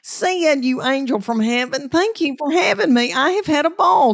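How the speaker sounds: gushing thanks. Real, not acted. Guest thanking host Sid at the close, bubbling over. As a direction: beam your thanks to the host.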